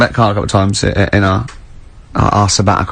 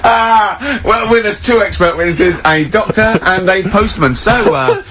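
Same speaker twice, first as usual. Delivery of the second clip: mock impressed sarcasm; 8 semitones higher, slower than usual. Mocking Karl's expert claims.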